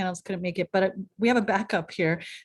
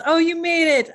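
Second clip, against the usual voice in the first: high, loud, excited welcome; delighted surprise; 10 semitones higher, 10 dB louder than usual. Real, not acted. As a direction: exclaim it, thrilled they showed up. Host greets late-arriving panelist.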